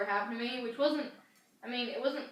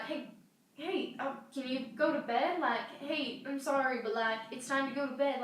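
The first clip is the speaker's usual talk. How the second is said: slightly raised, hushed big-sister voice; gentle coaxing; 3 semitones higher than usual. Retold or imitated. Older sister nudging her toddler brother to bed, gently coaxing. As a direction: coax a little one back to bed.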